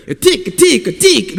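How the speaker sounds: high, angry fake-Russian gibberish; imitating an angry leader in made-up Russian; mock angry Russian. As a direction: bark pretend Russian like a furious Putin. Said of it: "it sounded like he was speaking like this".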